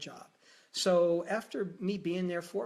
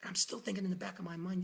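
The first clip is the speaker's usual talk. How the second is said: ordinary talk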